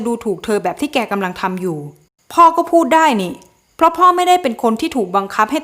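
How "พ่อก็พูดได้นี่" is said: high, loud and defiant; angry retort. Acted. Son snaps back at his father in anger. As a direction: throw it back at him hard.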